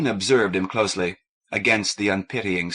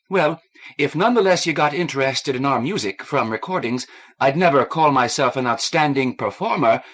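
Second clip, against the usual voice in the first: put-on eager young woman; 5 semitones higher, 4 dB louder than usual. A narrator's reading. Kathleen eager, modest.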